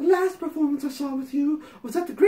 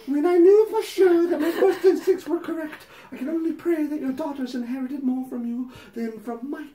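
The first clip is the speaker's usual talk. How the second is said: hammed-up letter voice; 3 semitones higher, 3 dB louder than usual. Reading the letter to Patty, hammed-up prim voice. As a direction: read it like a sanctimonious fan pouring her heart out. Reads fan letter aloud.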